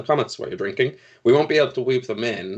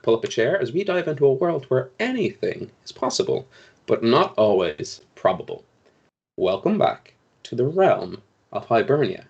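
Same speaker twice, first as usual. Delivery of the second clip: measured game master's opening narration; show intro. Acted. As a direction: welcome the audience into the adventure, pausing for effect.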